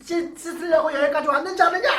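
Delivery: a general who feels humiliated erupts in anger; furious general. Acted. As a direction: rant like an insulted commander. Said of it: "막 이러면서 화를 버럭버럭 냈어요".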